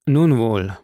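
gefasst, mit erzwungener Ruhe; scheinbar ruhig. A narrator's reading. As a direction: noch beherrscht, bevor es ausbricht. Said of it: "von scheinbarer Ruhe". (Morell gibt sich vor dem Grafen noch ruhig)

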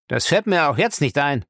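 rebellious. Acted. Lacey won't take his master's order, rebellious. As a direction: dig your heels in. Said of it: "Lacey war in aufsässiger Stimmung".

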